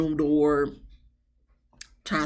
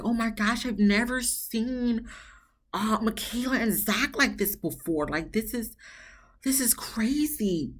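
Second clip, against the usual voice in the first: a hushed, shocked half-whisper; shocked and scared; 4 semitones higher, 5 dB quieter than usual. Retold or imitated. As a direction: mimic a nervous onlooker peeking through the door. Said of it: "she looking a little scared and nervous".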